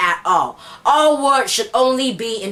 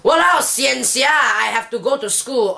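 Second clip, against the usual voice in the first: Singlish. Shown as a demonstration. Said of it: "for example".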